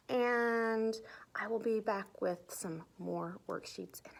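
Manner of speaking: soft whispered sign-off; whispering. Real, not acted. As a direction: hush to a whisper to close.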